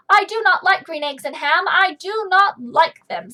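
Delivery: loud, stubborn grumpy guy; grumpy refusal. Acted. Grumpy guy refuses Sam, loud stubborn no. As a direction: bark each no like a cranky grown-up.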